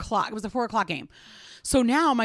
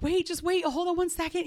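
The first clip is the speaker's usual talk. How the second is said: retold urgent wait; 9 semitones higher than usual. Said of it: "I'm like".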